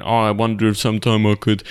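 imitated awkward date request; cringy mock hesitation. Ross tries asking Rachel out, imitated cringy hesitation. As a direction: make a cringy ordeal of asking. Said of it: "making this big cringy ordeal out of asking Rachel out".

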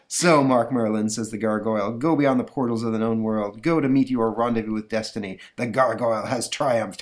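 lightly voiced gloating gargoyle; a hint of a sneering monster; villain gargoyle. Gargoyle's triumphant speech.

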